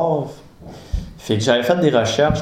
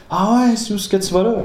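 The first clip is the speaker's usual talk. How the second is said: père méfiant; 9 semitones higher than usual. Retold or imitated. Père répond au fils.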